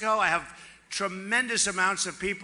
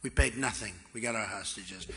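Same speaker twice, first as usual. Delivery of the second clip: softened approach; 9 semitones lower, 7 dB quieter than usual. Retold or imitated. Softly reminding the Iran negotiators the hostages are back. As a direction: lower and softer, easygoing and friendly. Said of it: "So I'd go in differently now".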